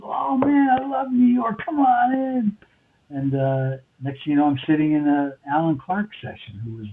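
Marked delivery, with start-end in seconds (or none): 0.0-2.6 higher, chirpy imitation of the assistant engineer; imitating an excited engineer. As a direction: play up the friendly Brit inviting him in. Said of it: "He goes".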